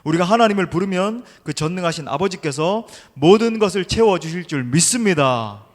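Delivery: loud, emphatic sermon exhortation; impassioned preaching. Acted. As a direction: project it to the whole congregation.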